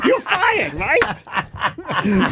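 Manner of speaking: put-on stereotypical Asian accent. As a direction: squeak it out in a mock accent. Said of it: "that accent".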